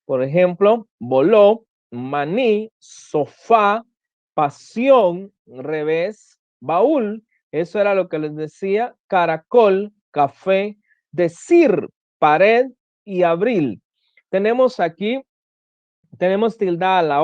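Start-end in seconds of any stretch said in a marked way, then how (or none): 1.0-7.2 voló, maní, sofá, pasión, revés, baúl, each leaning on its final syllable; teacher reads voló to baúl separately, stressing each ending; stress on last syllable. Shown as a demonstration. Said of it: "llevan el acento en la última sílaba". 9.1-13.8 caracol, café, decir, pared, abril, each weighted on the final syllable; teacher's list from caracol to abril, last syllables emphasized; stress on last syllable. Shown as a demonstration. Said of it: "llevan el acento en la última sílaba".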